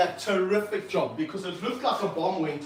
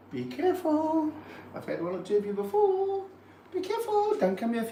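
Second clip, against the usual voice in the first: mock warning; 10 semitones higher than usual. Warning lazy teen volunteers.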